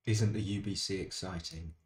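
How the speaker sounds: dry sarcastic question. Real, not acted. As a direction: sounds like you don't mean it. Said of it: "came out sarcastically".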